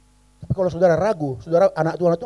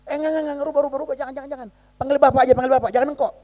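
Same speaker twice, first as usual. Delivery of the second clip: flustered correction; 9 semitones higher, faster than usual. Retold or imitated. Correcting child's form of address.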